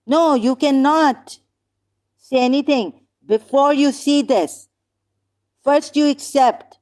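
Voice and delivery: heated, high-pitched objection; really worked-up, insistent self-defence; indignant protest. Real, not acted. Indignant protest at being blamed.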